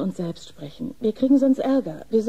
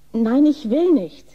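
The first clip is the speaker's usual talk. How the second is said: slow, louder no; firm refusal; 2 semitones higher, 5 dB louder, slower than usual. Acted. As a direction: put your foot down. Nurse refusing firmly.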